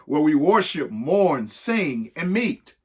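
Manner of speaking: measured, sing-song reading of an alphabet rhyme; rhyming read-aloud. Acted. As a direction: read it like a picture book for kids. Reads an ABC poem aloud.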